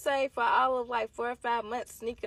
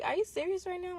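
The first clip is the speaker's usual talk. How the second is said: disbelief; 10 semitones higher than usual. Retold or imitated. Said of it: "I'm like".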